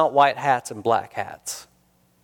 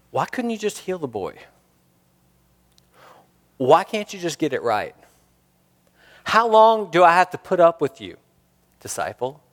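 harsh scolding Jesus; 4 semitones higher than usual. Retold or imitated. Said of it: "I normally hear is I hear".

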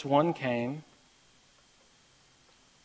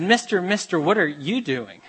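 put-on higher, louder kid calling; child's voice; 5 semitones higher, 5 dB louder than usual. Boy calling to the singing bricklayer, high and eager. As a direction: call out brightly like a small boy.

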